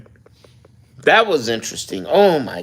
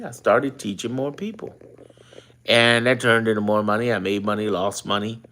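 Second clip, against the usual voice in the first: ordinary delivery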